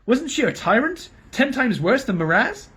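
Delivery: high, pleading protest; alarmed king. A narrator's reading. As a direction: raise your voice in disbelief.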